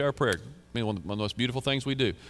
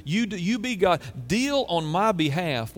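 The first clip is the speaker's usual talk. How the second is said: urgent pleading; 4 semitones higher than usual. Real, not acted. Pleading God to act.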